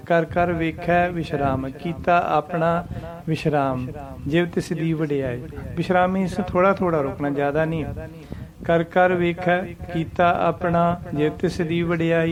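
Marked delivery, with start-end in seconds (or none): 0.1-5.4 short rests marked by saying ਵਿਸ਼ਰਾਮ after ਵੇਖੈ and ਆਪਣਾ; pauses at each ਵਿਸ਼ਰਾਮ. Shown as a demonstration. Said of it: "ਦੋ ਵਿਸ਼ਰਾਮ ਆਉਂਦੇ ਇੱਥੇ". 8.7-12.3 slow reading with short rests after ਵੇਖੈ and ਆਪਣਾ; correct recitation with pauses. Shown as a demonstration. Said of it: "ਇਸ ਤਰ੍ਹਾਂ ਉਚਾਰਨੇ ਦਾ ਠੀਕ ਹੈ".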